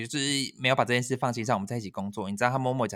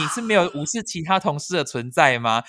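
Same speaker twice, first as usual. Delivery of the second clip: higher, louder, disbelieving; shocked inner outburst; 4 semitones higher, 5 dB louder than usual. Retold or imitated. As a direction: blurt it out in outrage. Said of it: "我就想说". (震惊地高声质问)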